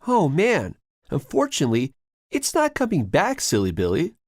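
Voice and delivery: growl. A narrator's reading. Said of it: "growls to his brother".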